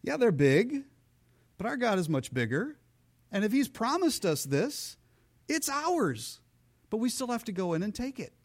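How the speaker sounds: high, bright rallying; rally the crowd with energy; eager encouragement. Acted. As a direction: Joshua and Caleb spurring the people on. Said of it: "Joshua and Caleb went".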